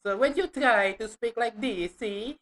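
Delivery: lightly put-on Italian accent; mock Italian-English, lightly done. Shown as a demonstration. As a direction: show how Italian-accented English sounds. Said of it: "like, Italian accent of English".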